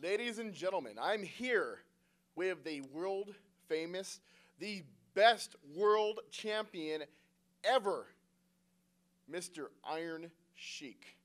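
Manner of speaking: slow, booming ring announcer intro; wrestling promo. Acted. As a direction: hype up the champion's entrance.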